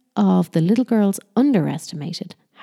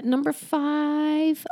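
high, very slow, sing-song; drawn-out announcement; 9 semitones higher, much slower than usual. Real, not acted. Announcing the next tip, drawn out. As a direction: stretch the number out high.

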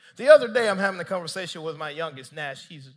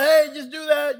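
loud, raised parental command; mild yell; 7 semitones higher, 8 dB louder than usual. Retold or imitated. Dad yelling at his young son upstairs, loud and insistent. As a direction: call it up to the kid, louder and higher. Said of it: "I yell at him".

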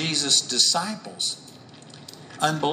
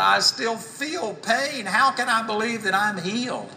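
higher-pitched mock doubting protest; imitated doubter; 5 semitones higher than usual. Preacher voicing people controlled by their senses, higher, doubting.

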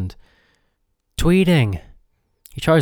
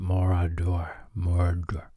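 как собачий лай; 4 semitones lower, 6 dB quieter than usual. Pretend. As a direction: turn the spoken name into dog-like growly barks. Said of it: "Like a dog".

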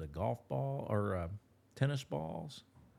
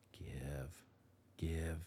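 command; 4 semitones lower, 8 dB quieter than usual. Shown as a demonstration. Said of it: "release command demo".

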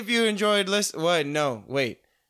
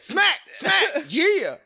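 hype man; 12 semitones higher, 4 dB louder, much slower than usual. Retold or imitated. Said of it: "he's like his hype man".

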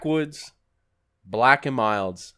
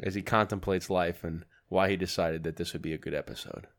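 sports-style commentator, slightly lower; mock commentary; 5 semitones lower, 5 dB quieter than usual. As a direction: narrate like a play-by-play. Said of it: "Now, commentary".

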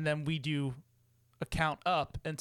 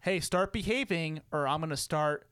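mock stern parent.

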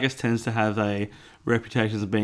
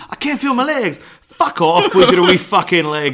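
shouted Scottish ogre, much higher and louder; aggressive Shrek; 6 semitones higher, 7 dB louder than usual. Acted. Riffing as a swearing Shrek in a shouted Scottish accent. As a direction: snarl it like a foul-mouthed Shrek. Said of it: "a far more aggressive Shrek".

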